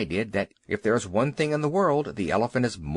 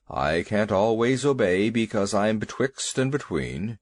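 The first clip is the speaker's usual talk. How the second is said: a big worried beast demanding answers; lightly voiced elephant; 3 semitones lower than usual. Elephant Two Tails voiced.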